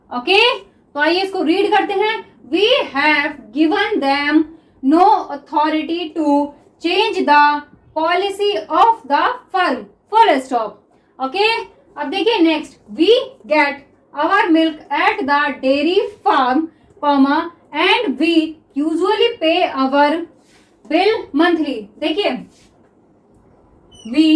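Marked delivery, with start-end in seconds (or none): 2.5-10.7 very slow, word-by-word dictation pace. Acted. Teacher dictating to shorthand students, very slow and deliberate. 12.9-21.8 very slow, word-by-word dictation pace. Acted. Teacher dictating to shorthand students, very slow and deliberate.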